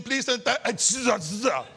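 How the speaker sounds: drawn-out sing-song warning through laughter; laughing warning. Retold or imitated. Preacher retelling warning the neighbour at the fence, laughing. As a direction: stretch it out, breaking into laughs. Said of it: "I said to him".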